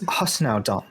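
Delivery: lightly voiced queen, pitch rising; Titania chiding. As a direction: shoo the satyr away as his queen. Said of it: "And she says".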